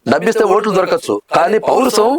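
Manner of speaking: lightly acted, cool hero sparing a young man; calm, proud hero, letting him go; hero dialogue. Hero tells a young opponent he is being spared, lightly acted. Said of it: "ఇంకో dialogue".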